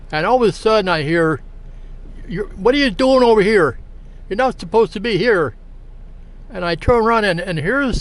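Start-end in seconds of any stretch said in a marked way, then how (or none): 2.3-5.5 mildly indignant retold challenge, higher; upset. Upset woman confronting the man eating chicken, mildly acted indignation. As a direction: voice an upset stranger, lightly acted. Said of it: "very upset".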